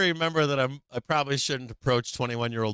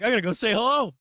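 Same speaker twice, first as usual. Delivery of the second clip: higher-pitched, eager announcement; eager dad; 8 semitones higher, 4 dB louder than usual. Retold or imitated. Dad announcing to the table he'll greet a stranger, eager and high. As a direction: pipe up like an over-keen dad.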